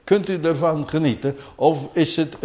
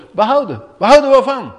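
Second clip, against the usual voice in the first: higher and louder challenge; emphatic rhetorical question; 8 semitones higher, 6 dB louder, faster than usual. Acted. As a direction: throw the question at the listeners. (nadrukkelijke retorische vraag)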